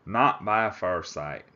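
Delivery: slow, hammed-up Texas cowboy drawl; Texas accent. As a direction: drag it out in a bad Texas accent. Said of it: "That's my terrible Texas accent".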